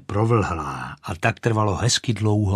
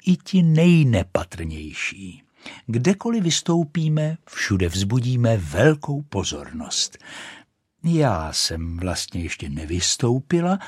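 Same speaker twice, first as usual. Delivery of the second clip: lightly voiced boasting rocket, higher on the peaks; boastful rocket; 3 semitones higher than usual. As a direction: show off grandly but mildly. Rocket brags. (mírně vychloubačná raketa)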